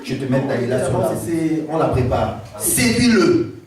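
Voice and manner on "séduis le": Philistins complotant. Acted. Philistins parlent à Dalila.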